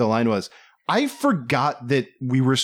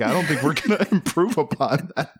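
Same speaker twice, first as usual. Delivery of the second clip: stifled giggles; 3 semitones higher than usual. Real, not acted. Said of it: "trying not to laugh".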